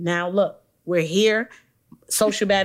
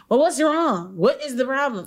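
higher, mock-worried questioning; imitated concerned bystander; 4 semitones higher than usual. Imitating people who question her quietness, higher mock concern. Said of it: "nobody's like".

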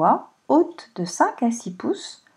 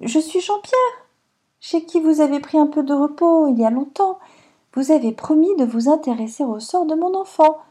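paysan qui s'adresse à la dame, plus fort et plus aigu; un brave homme qui prend son courage à deux mains; meunier humble; 4 semitones higher than usual. Acted. Meunier supplie madame la pluie. (le meunier supplie madame la pluie, voix de paysan)

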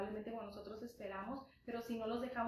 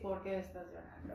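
lower, reproachful, as a complaint; annoyed reproach; 4 semitones lower than usual. Shown as a demonstration. An irritated complaint, pitch dropped. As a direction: parent scolding a crying child, annoyed reproach. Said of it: "Como enfado, como reclamo".

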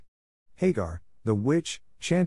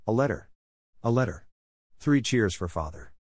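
eager joyful calls, mildly raised; a girl cheering news from her father; excited cry; 2 semitones higher than usual. Acted. Joe tossing her napkin at the news, a mildly excited cry.

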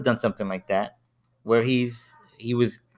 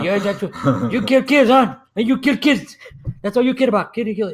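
much higher, louder, laughing through it; hammed-up outraged accusation, pitched way up; mock accusing; 12 semitones higher, 5 dB louder than usual. Tony accusing the hitman of killing kids, high-pitched, loud and laughing. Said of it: "And he's like".

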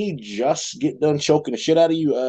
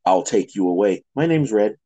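deep mock voice; 7 semitones lower than usual.

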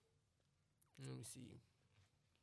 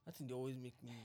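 demonstrated whisper; 5 dB quieter than usual. Shown as a demonstration. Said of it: "I like when girls whisper to me".

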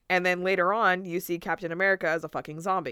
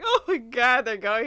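excited; 5 semitones higher, 6 dB louder than usual. Retold or imitated. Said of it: "I was like".

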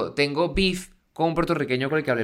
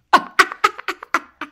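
a loud, much higher burst of laughter; high cackling laugh; 7 dB louder than usual. Real, not acted. Finishing the gossip story, a high cackling laugh. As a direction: cackle at your own gossip.

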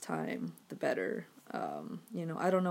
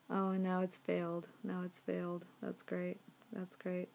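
deadpan sarcasm; 4 dB quieter than usual. Real, not acted. Deadpan sarcasm as transfer fails.

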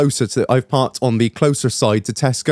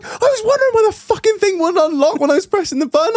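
high squeal, words squeezed through laughter; laughing confession; faster than usual. Retold or imitated. Owner admitting his unlock confusion, laughing helplessly. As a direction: get it out while cracking up.

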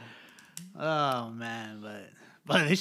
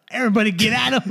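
raised, louder imitation of an eager friend; mock rallying call; 3 semitones higher, 4 dB louder, much faster than usual. Imitating a friend calling everyone in to pile on, mock rallying call. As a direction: call out like rounding up the gang.

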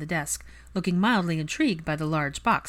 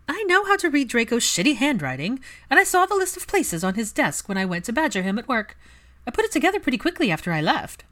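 gleeful; 7 semitones higher, 5 dB louder than usual. A narrator's reading. Pansy gleeful reveal.

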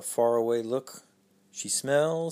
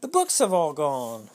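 louder dismayed cry; upset cry; 4 dB louder than usual. Acted. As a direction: wail that the books are gone. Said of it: "cried out Peter".

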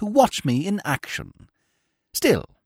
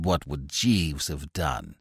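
puzzled Bingo; 8 dB quieter, slower than usual. A narrator's reading. Bingo puzzled, low and slow.

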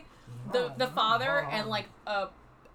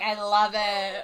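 laughing; 3 semitones lower, 7 dB louder, slower than usual. Retold or imitated. Voicing smitten king.

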